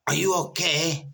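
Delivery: imitating an Indian doctor calling through a door; Indian accent. Doctor shouting through the cell door in a mock Indian accent. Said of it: "I don't know if that sounded Asian".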